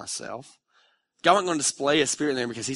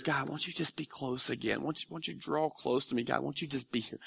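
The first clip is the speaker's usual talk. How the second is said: hushed plea; 7 dB quieter than usual. Retold or imitated. Quoted pleading prayer.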